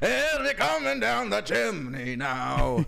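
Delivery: high slow storybook narrator; storyteller voice. Acted. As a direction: read it like a fairy tale. Put-on narrator voice.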